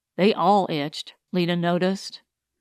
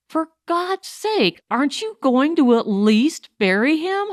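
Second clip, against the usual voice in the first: higher, pleading outburst; losing control; 6 semitones higher than usual. A narrator's reading. Lita begs the men to bury him, losing control. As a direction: break out, pleading and upset. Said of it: "Lita lost control of herself".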